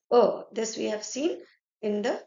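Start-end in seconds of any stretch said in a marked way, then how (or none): 0.1-0.4 a said as "uh"; French "uh" sound for a; French letter E. Shown as a demonstration. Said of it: "E was pronounced as".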